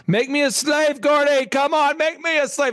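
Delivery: high, pleading begging voice; high whiny begging plea. Retold or imitated. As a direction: beg the boss like a desperate kid. Begging boss for hours.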